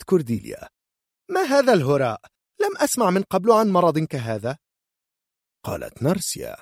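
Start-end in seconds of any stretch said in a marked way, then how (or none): 1.3-4.6 high, loud scoffing mother; loud indignant scoff; scornful disbelief. Acted. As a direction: dismiss it as nonsense.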